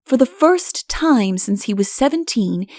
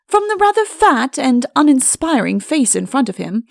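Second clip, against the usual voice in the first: ordinary delivery, nothing marked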